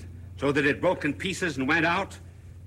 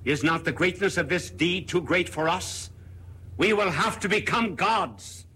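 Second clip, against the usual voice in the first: higher and building, ending high; rising fervour; 6 semitones higher than usual. Acted. Madman exhorting the crowd, building higher. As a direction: climb to a fevered peak.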